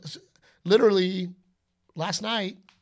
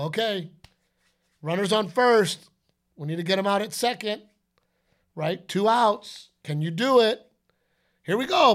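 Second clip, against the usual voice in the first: a hint of a pumped-up coach, building louder; game coach; 4 semitones higher, 3 dB louder than usual. Dad setting up a game scenario for his son, upbeat coach call. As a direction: call the play like a coach firing up his player.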